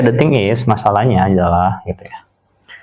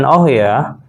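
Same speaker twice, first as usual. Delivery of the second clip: "oh ya" starting high and dropping; "oh ya" with a falling, confirming tune; descending intonation; 3 semitones higher than usual. Shown as a demonstration. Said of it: "descending intonation".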